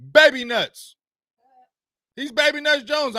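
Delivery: high, loud mocking jab; mocking nickname. Real, not acted. Host mocking the Cowboys coach with a nickname. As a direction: sneer out the nickname.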